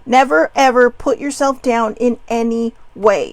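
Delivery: exclamation point at the end; emphatic. Shown as a demonstration. Insisting viewers never put themselves down, emphatic. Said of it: "There is an exclamation point".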